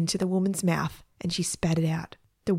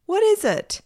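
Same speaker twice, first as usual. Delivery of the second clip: what is it; 13 semitones higher, 4 dB louder than usual. Acted. Siblings ask excitedly.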